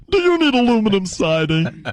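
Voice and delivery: mock ad read; imitating radio ad voice. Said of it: "she got the voice that sounds like this".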